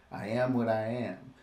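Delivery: a light hint of Popeye's sailor accent; mock sailor accent on I am what I am, lightly done. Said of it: "his accent".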